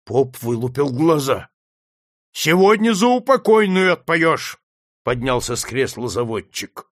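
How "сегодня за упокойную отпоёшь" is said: loud order. Acted. Master orders the priest.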